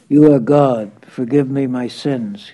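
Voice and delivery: a loud, desperate plea at a master's feet; begging. A narrator's reading. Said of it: "he begged".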